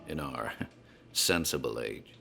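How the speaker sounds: measured, ominous storyteller's voice over music; story narration. A narrator's reading. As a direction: draw the stranger into a dark tale, unhurried. Bartender narrates the Dunwich tale.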